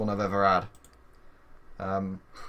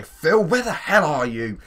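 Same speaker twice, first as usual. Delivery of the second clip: loud, raised-pitch call; 7 semitones higher, 9 dB louder than usual. Real, not acted. Calling for Phil, who hasn't turned up, loud and high. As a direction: holler for someone who's missing.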